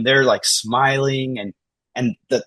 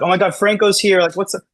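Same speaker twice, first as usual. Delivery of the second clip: much higher, louder delighted cheer; excited welcome; 10 semitones higher, 5 dB louder than usual. Retold or imitated. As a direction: greet a regular with real joy. Front desk greets him excitedly.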